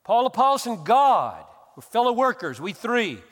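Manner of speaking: loud, high mock version of Paul's words; mock paraphrase. Preacher voicing the reading he rejects, loud and high. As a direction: boom out the wrong reading. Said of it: "I don't think he's saying".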